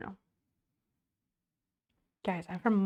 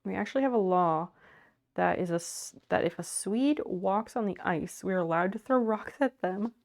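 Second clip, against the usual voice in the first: whiny argue voice; 4 dB louder than usual. Acted. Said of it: "whiny argue voices 'cause it's more fun".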